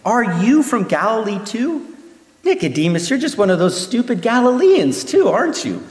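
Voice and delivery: a lightly voiced sneer at a fellow council member; mocking ridicule. Pharisees ridiculing Nicodemus in a mild mock sneer. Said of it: "scolding him and by ridiculing him".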